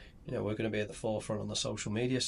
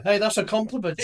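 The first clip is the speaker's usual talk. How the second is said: higher pitched, laughing through the words; 11 semitones higher, 7 dB louder than usual. Real, not acted. Laughing, insisting to her cohost it was meant kindly. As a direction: giggle it out as a playful protest. Teasing friend, laughing at joke.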